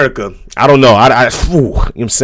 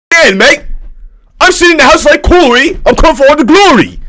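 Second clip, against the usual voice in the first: higher-pitched mock British accent; mock European accent; 6 semitones higher than usual. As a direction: mimic a British rapper, pitched up. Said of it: "that European accent".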